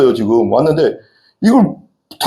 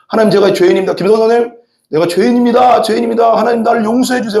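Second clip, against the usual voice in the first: higher, pleading, half-acted sobbing plea; imitated wailing prayer; 6 semitones higher than usual. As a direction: show the congregation how to lament for sin. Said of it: "꺽꺽 운다는 거". (흉내 낸 꺽꺽 우는 회개 기도)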